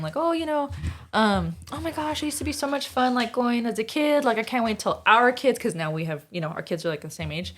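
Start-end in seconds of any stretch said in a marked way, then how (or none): 0.1-5.6 higher-pitched retold gushing; mildly excited quote of a chatty relative; cousin's gushing. Cousin reminiscing to mom about childhood outings, mildly gushing. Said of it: "was talking to my mom and saying".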